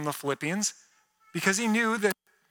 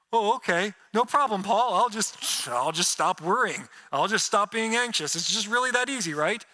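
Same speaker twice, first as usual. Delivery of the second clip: sarcastic reply; 3 semitones higher than usual. Retold or imitated. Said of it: "we read that and we're going".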